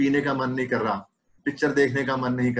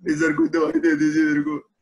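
pleading patient; 2 semitones higher, 4 dB louder than usual. Retold or imitated. Doctor voices pleading patient.

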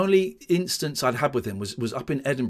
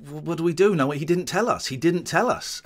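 mildly flustered mock dismay, higher pitch; exasperated quote; 5 semitones higher than usual. TV staff unsure how to work with Brendan, mock exasperation. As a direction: imitate baffled TV people at a loss. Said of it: "banging their heads and scratching their heads, going".

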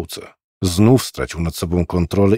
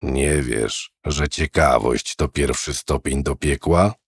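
put-on old man; 6 semitones lower, 5 dB quieter, slower than usual. Old man voiced in story.

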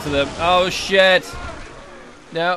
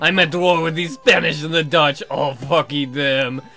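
a hint of a grand old governor, slow; lightly voiced pompous governor; 4 dB louder than usual. Governor welcoming the captain, lightly pompous. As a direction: greet the captain like a self-important governor.

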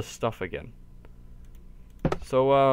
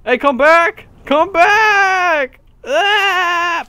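desperate shouting after them; 14 semitones higher, 9 dB louder, much slower than usual. Real, not acted. Calling after leaving player.

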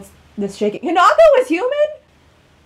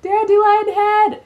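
higher, drawn-out protest; yelling at him; 5 semitones higher, slower than usual. Real, not acted. Gamer shouts at Ranmaru to bring Keiji back. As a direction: shout the demand at the screen.

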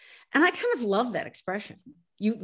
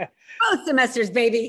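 louder, slower, laughing brag; bragging; 5 dB louder than usual. Real, not acted. Author bragging to the host about her A, laughing. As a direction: gloat over the grade with a laugh. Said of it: "I have to brag".

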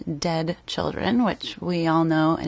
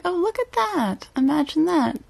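sarcastic; 8 semitones higher than usual. Real, not acted. Sarcastic reveal of actor photo.

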